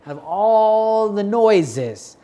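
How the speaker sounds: "all" stretched long, high and loud; drawn-out emphasis. Real, not acted. Father picking out his kid in a noisy mall, "all" drawn out high and loud. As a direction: hold "all" out high to show the sheer din. Emphasising a crowd's many noises.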